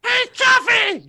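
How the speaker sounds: slow, high call across the room; stretched-out, high hail. Acted. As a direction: hail a friend from far off.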